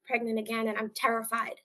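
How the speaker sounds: patient telling the nurse why she is scared, calm and soft; calm and polite. Retold or imitated. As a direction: explain it gently and politely. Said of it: "very calmly and politely said".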